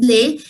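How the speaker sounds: "lay" for L E S, with a silent S; French article pronunciation. Shown as a demonstration. Teacher showing a student how to speak L E S, careful "lay". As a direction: say "lay" distinctly, no S sound. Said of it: "tell me how to speak these".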